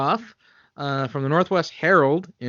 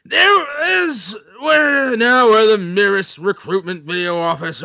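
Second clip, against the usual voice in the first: excited; 5 semitones higher, 4 dB louder than usual. Pretend. Acted gibberish reading.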